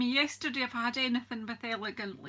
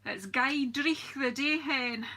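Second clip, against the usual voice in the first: slow, broad Scots saying of her dad; 3 dB louder than usual. Retold or imitated. Daughter imitating her dad's broad Scots weather complaint. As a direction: drawl it out like an old Scots father. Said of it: "what my dad would have said to me".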